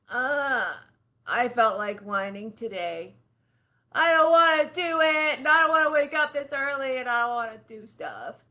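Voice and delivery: put-on whiny complaining child; whining voice. Shown as a demonstration. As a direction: whine it out like a grumpy kid. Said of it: "when we use our whining voice".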